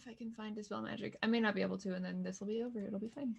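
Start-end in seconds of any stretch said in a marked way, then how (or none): none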